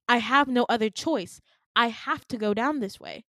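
loud, emphatic acted insistence; desperate insistence. Jessica insisting there is no choice, desperate. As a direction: drive each phrase home loudly.

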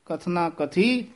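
ਕਥਨਾ ਕਥੀ slowly, then a rest; pause after ਕਥੀ. Shown as a demonstration. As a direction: hold ਕਥੀ and stop before ਨਾ. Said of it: "ਇੱਥੇ ਵਿਸਰਾਮ ਹੈ".

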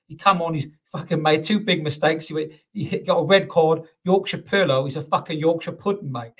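a self-confessed bad Cockney accent for a West Ham fan; rough, amateur Cockney impression of a football fan; crap Cockney accent. Podcaster imitating a West Ham fan interviewed outside the ground, crap Cockney accent. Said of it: "apologies for the crap Cockney accent".

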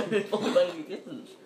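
laughing and fast. Real, not acted. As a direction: blurt it out through laughter. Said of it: "I finally did it".

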